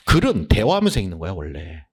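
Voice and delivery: ordinary delivery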